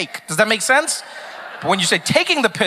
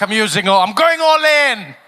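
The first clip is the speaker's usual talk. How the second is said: Reagan; 4 dB louder than usual. Acted. Comedian voicing the breakdancer betting everything, boldly building. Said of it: "Reagan was like".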